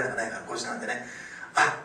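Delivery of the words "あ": loud, eager imitation of a caller; excited phone greeting. Rescued husband phoning his wife, loud excited greeting. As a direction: burst in with a loud retold hello.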